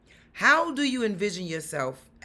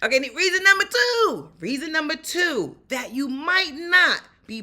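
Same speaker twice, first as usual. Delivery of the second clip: announcer voice; 8 semitones higher, 5 dB louder than usual. Real, not acted. Announcing the next point.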